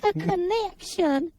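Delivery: slow, eerie psychic announcement; spooky medium voice. Acted. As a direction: intone like a spirit medium. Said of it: "You sound like the grandma from Poltergeist".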